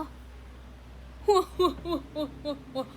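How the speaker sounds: breathy huffing hua-hua, half laughing; hua-hua panting sound. Shown as a demonstration. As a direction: puff out the hua-hua tone in short huffs. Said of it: "gimana sih hua-hua?".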